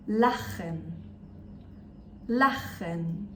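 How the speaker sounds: parole tedesche col ch aspro scandite da ripetere; model German words. Shown as a demonstration. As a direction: pronuncia chiara ch raschiato, a modello. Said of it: "Repeat after me".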